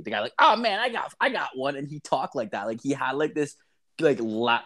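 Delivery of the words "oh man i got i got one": high, puppet-frog voice imitating a friend; Kermit-like voice. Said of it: "this really Kermity voice".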